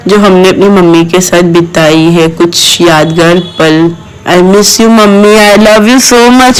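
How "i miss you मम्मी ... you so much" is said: loving farewell. Real, not acted. Daughter leaving her mother's home, loving farewell. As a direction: linger lovingly on each phrase.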